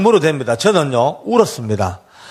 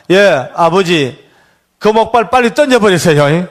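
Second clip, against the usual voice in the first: urgent plea; 2 semitones higher, 4 dB louder, slower than usual. Retold or imitated. Son's last words on the gallows.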